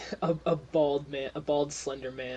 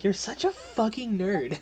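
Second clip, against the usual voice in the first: higher-pitched teasing scorn; mocking put-down; 7 semitones higher, 5 dB louder than usual. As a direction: jeer at the nitpicker, voice raised in pitch. Same mocking put-down, replayed.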